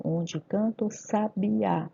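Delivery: "canta o" flowing together as "canto"; slow recital, no break in "canta o"; recited with elision. Shown as a demonstration. Teacher reciting the poem, "canta o" linked into one sound. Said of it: "eu não separo essas sílabas".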